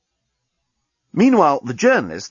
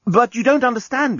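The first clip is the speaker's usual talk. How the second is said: alien man voice; 12 semitones higher, 3 dB louder than usual. Acted. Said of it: "began the journalist".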